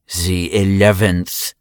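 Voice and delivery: put-on slow, chewed German accent. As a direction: drag the words out in a German accent. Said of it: "chewed the words in his German accent".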